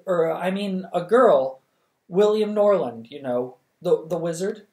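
put-on embarrassed girl flustered before the king; flustered stammer. A narrator's reading. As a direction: babble it out in a panic.

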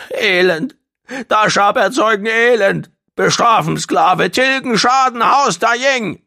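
high, loud creature lament; wailing. A narrator's reading. Gong collapses in misery before Dashab, wailing. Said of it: "begann zu jammern".

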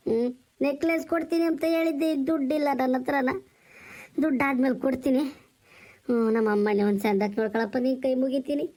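low, tearful pleading as he takes leave; begging through tears to look after his sister; older brother pleading in tears with his brother-in-law; tearful farewell. Acted. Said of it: "ಯಾಕಣ್ಣ ಕಣ್ಣೀರ್ ಹಾಕ್ತ?".

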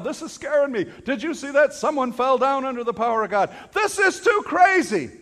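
high-pitched, mildly hammed-up complaint; mock alarm. Mocks upset churchgoers.

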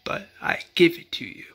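hushed whisper in a retold speech. Dale handing the watch over in a hush. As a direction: breathe it out like a secret gift. Dale's solemn speech to Morales.

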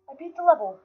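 high, loud cry of victory; triumphant exclamation. Real, not acted. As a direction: shout it in elated triumph. Celebrates beating the level.

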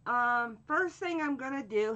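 ordinary talk, nothing marked

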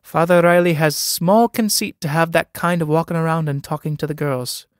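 pointed, emphatic words; peculiar emphasis. A narrator's reading. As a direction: lean on "Father Riley" with odd weight. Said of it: "with peculiar emphasis on the words".

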